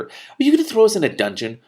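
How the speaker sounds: put-on high, loud hopeful boy; eager young prince. A narrator's reading. Young prince asks the king about dungeons, thrilled. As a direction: ask it hoping for a yes.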